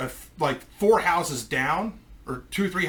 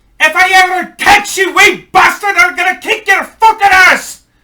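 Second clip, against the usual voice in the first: very high, very loud, shrill, furious top-of-lungs yell; 15 dB louder than usual. Recalling hiding from a man who saw him, the speaker retells a furious yell. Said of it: "I hear him yell at the top of his lungs".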